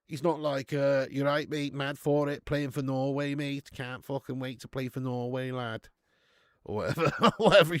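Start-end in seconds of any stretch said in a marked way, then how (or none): 1.1-5.9 lightly put-on laddish English accent; hint at a matey English lad accent; casual mock English-lad accent. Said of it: "He doesn't have an English accent".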